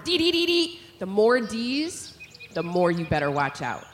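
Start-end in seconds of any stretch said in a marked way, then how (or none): 0.0-0.8 a lightly voiced higher alarm chirp; chickadee alarm. Shown as a demonstration. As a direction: warn of danger in short "dee"s. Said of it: "it's an alarm".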